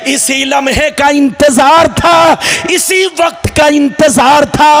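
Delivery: rhythmic, chanting sermon delivery with stretched words; full-force preaching. Acted. Preacher relays God's question to Adam, rhythmic chanted preaching. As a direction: preach it in measured, ringing phrases.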